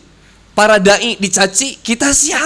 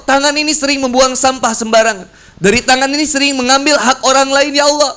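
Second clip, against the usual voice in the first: earnest repentant prayer, a touch higher; pleading prayer; 3 semitones higher than usual. Acted. Worshipper during wudu confessing to Allah, pleading earnestly. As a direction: plead with God humbly. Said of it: "pernah kita merasa".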